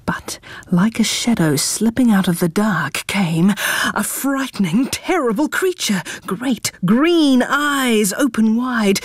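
spooky storytelling. A narrator's reading. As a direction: tell it like a scary secret. Scary creature appears.

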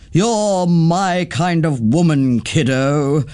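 lightly voiced breezy auntie, slow and easy; a hint of a bold, fond aunt; Auntie Twinkle. Auntie Twinkle praising Nettie, lightly voiced and easygoing.

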